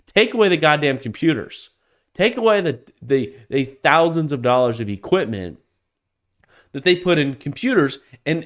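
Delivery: heated, rising rant that keeps building; fired-up rant. Real, not acted. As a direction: let the anger boil over, then drop off at the end. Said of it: "I got a little fired up".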